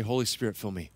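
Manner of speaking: "Holy Spirit, fill me" barely voiced, fading to a breath; whispered-soft prayer. Shown as a demonstration. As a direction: breathe the prayer almost silently. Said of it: "just say".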